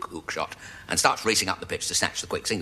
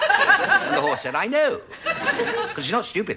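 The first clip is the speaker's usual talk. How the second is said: laughing; slower than usual. Real, not acted. Laughing through narration.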